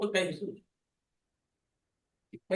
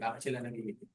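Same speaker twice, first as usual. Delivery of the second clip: lower, much softer repeat of the question; quiet repeat; 7 semitones lower, 10 dB quieter, much faster than usual. Shown as a demonstration. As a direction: ask it again softly, almost to yourself. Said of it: "Tanong natin".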